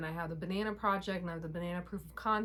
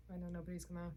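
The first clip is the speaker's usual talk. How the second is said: whisper; 9 dB quieter, much faster than usual. Real, not acted. Aside about her hair.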